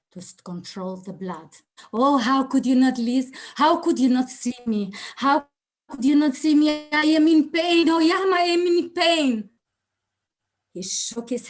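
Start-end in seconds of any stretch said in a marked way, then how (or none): 1.9-4.9 anguished reproach. Retold or imitated. Accusing the truck driver in pain. 5.2-6.9 higher, louder, the word see pushed hardest; anguished reproach. Retold or imitated. An injured woman confronting the driver who ran her over, louder anguished reproach. Accusing the truck driver in pain. 6.9-9.5 crying out in pain. Retold or imitated. Crying out her pain to driver.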